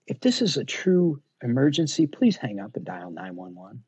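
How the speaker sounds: a hint of a Southern drawl, calm and slow-spoken; light Southern drawl. Calming a freaking-out customer on the phone, mild Southern drawl. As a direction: talk an upset caller down with a touch of Southern drawl. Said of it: "had a little Southern drawl".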